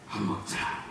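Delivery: hushed, whispered 밥 먹자; Jesus whispering an invitation to eat. Acted. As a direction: murmur it like a gentle secret. Jesus voiced inviting disciples.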